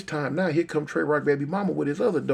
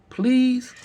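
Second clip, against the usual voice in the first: put-on high, loud child's plea; begging little girl; 8 semitones higher, 5 dB louder than usual. Girl pleading with the gunman, begging high. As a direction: imitate a daughter begging for Dad. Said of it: "And she begging him".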